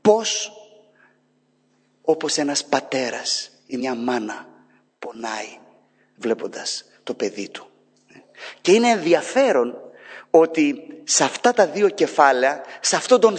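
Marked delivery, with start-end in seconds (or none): 2.0-7.7 hushed. Real, not acted.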